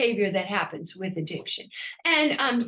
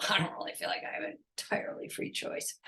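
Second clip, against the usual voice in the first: whispering; 4 semitones lower, 10 dB quieter, faster than usual. Real, not acted. Unvoiced whisper aside.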